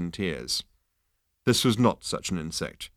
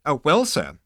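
snappish insect; 6 semitones higher, 5 dB louder than usual. Acted. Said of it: "snapped the fragile little creature".

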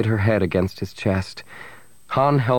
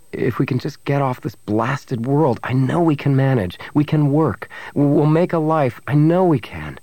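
earnest, building conviction, pitched up; fervent hope; 4 semitones higher than usual. Acted. Man urges his girlfriend to start a new life, fervent. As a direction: build urgency as you convince her. Han urges a hopeful future.

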